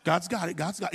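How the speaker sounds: hushed inner voice talking himself down; calming self-talk. Retold or imitated. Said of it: "I'm saying".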